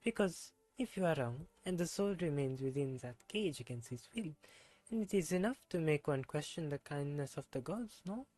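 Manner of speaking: put-on reading the character's lines in a self-admitted terrible French accent. Streamer voicing a game character, bad French accent. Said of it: "my terrible French accent".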